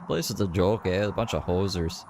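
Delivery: lightly hammed-up Canadian accent; mock Canadian accent. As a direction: tease him with a stereotyped Canadian lilt. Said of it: "why did he sound Canadian there".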